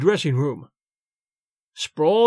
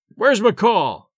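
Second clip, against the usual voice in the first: narrated angry yell; a mild yell hunting for McCall; 2 semitones higher, 4 dB louder than usual. A narrator's reading. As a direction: call out angrily down the aisle. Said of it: "he yelled".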